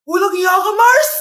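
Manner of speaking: loud angry outburst; furious. Acted. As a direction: yell it at your friend. Wife discovers betrayal.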